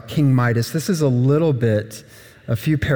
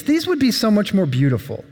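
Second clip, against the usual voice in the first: dreamy wish; 4 semitones higher than usual. Acted. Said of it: "he thinks".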